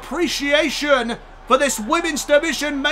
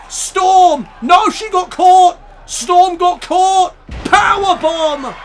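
excited; 3 semitones higher, 4 dB louder, slower than usual. Real, not acted. Near fall, move caught mid-air.

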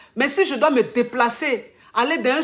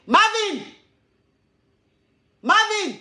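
calling out; 9 semitones higher, slower than usual. Real, not acted. Calling her child across room.

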